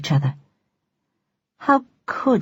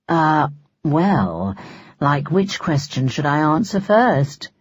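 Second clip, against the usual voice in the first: taunting; 3 semitones lower, slower than usual. Acted. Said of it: "he asked tauntingly".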